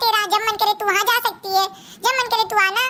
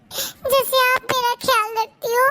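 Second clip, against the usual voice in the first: slow, crying plea to mom; tearful complaint; much slower than usual. Acted. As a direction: sob it out slowly. Daughter complains while crying. (रोते हुए धीमे से)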